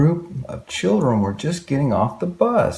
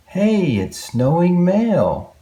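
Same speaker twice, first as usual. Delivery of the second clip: put-on excited boy; 8 semitones higher, 4 dB louder, slower than usual. A narrator's reading. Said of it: "A boy looked up".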